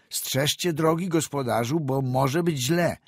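calling out loud over the wind. A narrator's reading. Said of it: "zauważył doktor".

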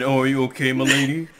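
mock gallant simp. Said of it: "your simp ass swooped in and said".

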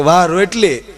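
crying, breaking mock-weepy wah; tearful echo. The wife answers her husband's praise in tears, voice breaking. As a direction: echo his praise while sobbing.

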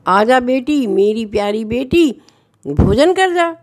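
sweetly calling out to a daughter; fond calling to daughter. Acted. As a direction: call her in to eat like a doting father. Father calls his daughter Radha.

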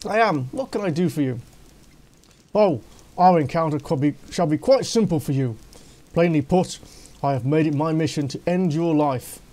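lightly hammed-up, menacing villain; a hint of a pompous would-be killer; gloating assassin. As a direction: announce the killing with smug relish.

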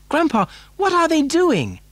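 put-on high, wondering boy's voice; Charlie. A narrator's reading. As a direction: ask your grandfather in a high child's voice. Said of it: "cried Charlie".

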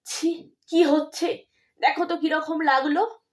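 calm her down kindly; gently. Acted. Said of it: "কোমল কণ্ঠে বলেন".

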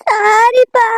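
tearful sorry; crying. Acted. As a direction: sob out the apology. Daughter still crying to father. (அழுகையுடன் மன்னிப்பு)

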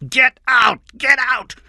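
very high, furious repeated screams. A narrator's reading. King drives Cameron from the house, screaming. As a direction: scream it in bursts, pitch shooting up. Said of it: "King screamed".

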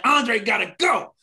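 quoting the homie who wants Andre gone; imitating Push. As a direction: drawl it like the friend. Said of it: "he was like".

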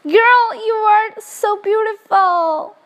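gushing excitement. Real, not acted. Meeting the newborn, high loud gushing. Baby arrives on screen.

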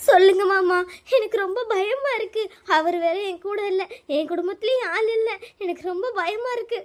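acted tearful plea for help; tearful fear. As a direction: sound scared and close to crying. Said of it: "அழுவாதம்மா, அழுவாதம்மா". (பயந்து அழும் கெஞ்சல்)

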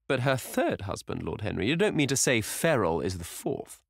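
a touch of an indignant society lady; lightly voiced hostess. A narrator's reading. Hostess retorting to Lord Henry over dinner, lightly voiced.

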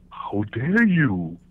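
How dare you drawn out very slowly; slow indignant. Retold or imitated. Dutch offended at being talked back to, slow and drawn out. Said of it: "you know the look".

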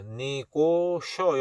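"니고셔" drawn out syllable by syllable; slow syllable demo. Shown as a demonstration. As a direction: stretch each syllable of "니고셔" for learners. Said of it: "여기서 T는". ("니고셔"를 한 음절씩 길게 늘여 발음)

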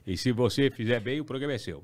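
lightly imitated TV boss; a hint of the boss's measured, coaxing delivery; Silvio. Boss promises the show to young host, lightly mimicked. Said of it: "ele imita igualzinho".

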